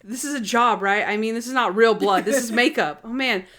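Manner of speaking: lightly acted alarm, character dropped; mildly panicked. Vampire actor learns she was killed, mildly panicked. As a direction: blurt it out in mock panic.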